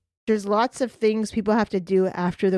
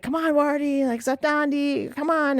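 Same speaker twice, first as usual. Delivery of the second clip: higher-pitched coaxing call; retold coaxing call; 6 semitones higher, slower than usual. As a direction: call the animal to come along.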